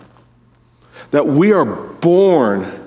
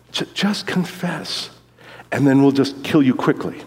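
religious guy; 5 dB quieter than usual. Retold or imitated. Religious guy urging the prisoner to confess, softly coaxing. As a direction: coax a prisoner quietly, in character. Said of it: "the religious guy, he goes".

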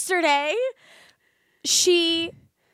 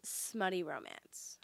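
whisper; 3 semitones lower, 15 dB quieter, slower than usual. Real, not acted. Whispered suggestion of smut genre.

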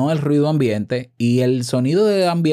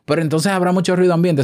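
skeptical listener; 7 semitones higher than usual. Pretend. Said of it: "Y tú dirás".

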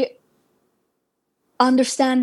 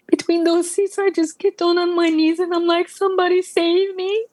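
higher voice, full of emotion; emotional testimony rising to a plea; moved; 4 semitones higher than usual. Real, not acted. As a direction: relive a desperate moment, pitched high. Reliving falling on her knees.

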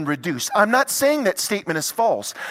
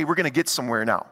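quick congregational line; 6 semitones lower, much faster than usual. Shown as a demonstration. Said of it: "Turn to your neighbor and say".

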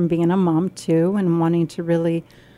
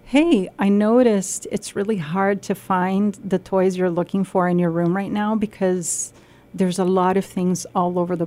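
gentle parent. Retold or imitated. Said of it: "if I went to this child instead and said".

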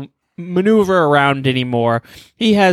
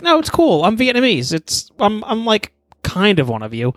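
high eager plea; pleading to fit in; 6 semitones higher than usual. Acted. The speaker pleads with Japanese people.

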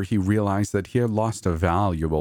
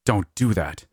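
ferocious. A narrator's reading. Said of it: "he added more ferociously".

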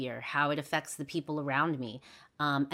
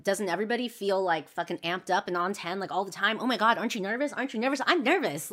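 anxious self-quote; 3 semitones higher, 3 dB louder than usual. Retold or imitated. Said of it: "I'm like".

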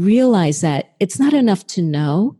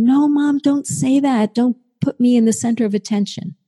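mild plea in a raised pitch; inward pleading; 5 semitones higher than usual. Retold or imitated. Child silently begging Mom not to single her out, lightly pleading. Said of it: "inside myself thinking".

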